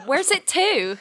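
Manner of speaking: West Country lilt, "to" said as "tu"; Devon "Where's it to?". Shown as a demonstration. The speaker showing her home Devon phrase, West Country accent. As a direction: give "Where's it to?" a high Devonian twang. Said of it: "You say".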